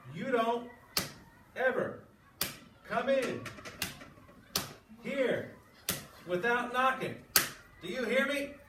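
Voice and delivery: loud, high, word-by-word bellow; furious father. Acted. Father yelling at his son for not knocking, furious bellow. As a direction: hammer each word like an enraged dad. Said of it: "working himself into a rage".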